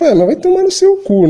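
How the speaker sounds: angry outburst at the viewers; exasperated curse. Real, not acted. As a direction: fling the insult out, fed up. Ranting at donors.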